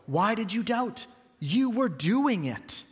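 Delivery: slow, gentle encouraging question; Jesus gently encouraging Peter, not scolding; gentle challenge. Acted. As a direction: ask it kindly, not as a put-down. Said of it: "this isn't a harsh put down".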